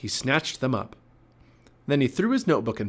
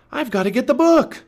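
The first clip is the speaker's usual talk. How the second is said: high, loud insistent call; 14 semitones higher, 8 dB louder than usual. A narrator's reading. Jack insists on fetching the book, calling out. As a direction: holler back your reason urgently. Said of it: "Jack called".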